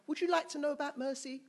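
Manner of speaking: high, loud confrontational outburst; mock aggressive. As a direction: hurl it as a hammed-up threat. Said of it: "Don't say it like that".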